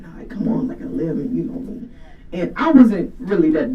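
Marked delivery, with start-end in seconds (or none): 0.0-1.9 put-on whispering, conspiratorial older brother; whispered brother. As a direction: whisper it so the parents won't hear. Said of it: "He'd be like".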